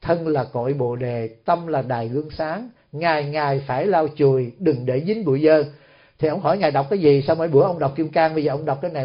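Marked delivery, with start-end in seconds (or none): 0.0-5.6 lightly recited verse, low and soft; imitated verse recitation. Novice reciting a verse while fetching rice, low quiet recitation. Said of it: "ổng vừa đọc".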